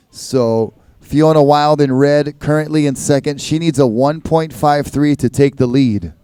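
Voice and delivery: relaxed score read over the PA; easygoing contest announcer voice; laid-back surfer announcer. Acted. Reads out the heat scores.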